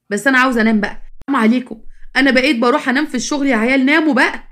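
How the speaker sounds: tired parent pleading for sleep; exasperated scolding. Acted. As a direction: scold the kids, a touch heated. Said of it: "مالك يا بابا كده بتزعق لنا؟".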